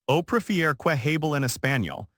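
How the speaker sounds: fluent native-sounding Castilian Spanish. Acted. Waitress addresses rude diner in Castilian Spanish. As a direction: switch smoothly into crisp Castilian Spanish. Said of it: "she continued in perfect Castilian Spanish".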